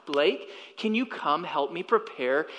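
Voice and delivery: calm. Retold or imitated. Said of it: "my wife calmly asked".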